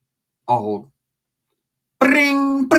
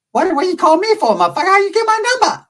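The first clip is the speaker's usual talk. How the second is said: high, loud put-on accent; Asian gang leader; 5 dB louder than usual. Shorty picking up the phone, annoyed. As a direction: bark it like an annoyed gang boss. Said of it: "And he's like".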